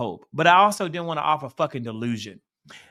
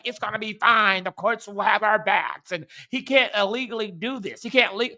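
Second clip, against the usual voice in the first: mocking reassurance; 4 semitones higher than usual.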